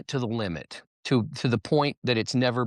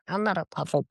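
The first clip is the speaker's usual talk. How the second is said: puppet voice; 4 semitones higher than usual. Pretend. Puppet objects to being called puppet.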